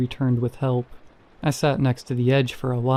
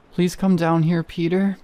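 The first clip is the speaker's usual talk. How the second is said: whimpering; 5 semitones higher than usual. A narrator's reading. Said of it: "she said in a whimper".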